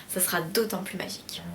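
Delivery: soft secret whisper. Acted. Playful closing aside.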